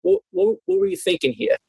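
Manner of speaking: high-pitched mock scolding, not quite the accent; gruff Boston editor. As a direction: play the tough old editor grilling a rookie. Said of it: "I'm not gonna do the accent well".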